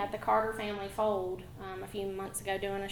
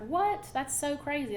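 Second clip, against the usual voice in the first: amazed; 5 semitones higher than usual. Retold or imitated. Retelling amazed reaction.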